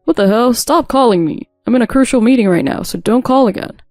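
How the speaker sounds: acted exasperation on the phone; irritated. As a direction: snap at an unwanted caller. Husband snaps at repeated calls.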